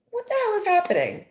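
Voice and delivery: high-pitched, quick incredulous outburst; acted disbelief. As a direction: blurt it out as mock bewildered outrage. Acting out outraged disbelief at work.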